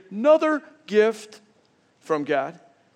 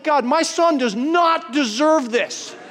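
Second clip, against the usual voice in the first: slow, higher, laughing through it; laughing disbelief; 7 semitones higher, slower than usual. Retold or imitated. Pastor to congregation, laughing in disbelief. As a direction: marvel at the son's luck with a laugh. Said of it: "I'm like".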